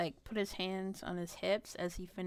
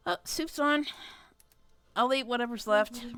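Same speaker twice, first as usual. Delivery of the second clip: bright call to dinner, louder; cheerful announcement; 3 semitones higher, 4 dB louder than usual. Acted.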